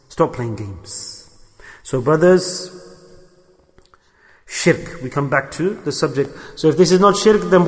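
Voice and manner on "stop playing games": slow, stern repeat. Acted. Preacher slowly repeating his warning to the brothers, hushed and stern. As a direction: stop playing games, slowed right down and hushed.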